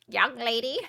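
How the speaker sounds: lightly voiced old lady; a hint of a creaky elder; old person voice. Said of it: "I gotta do my old person voice".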